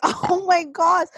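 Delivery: put-on mother stunned as toddler devours the banana; stunned oh my gosh. Amazed at child's hunger.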